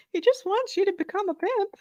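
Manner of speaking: very high, giggly voice; laughing. Real, not acted. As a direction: squeak the joke out through laughter. Repeats joke while cracking up.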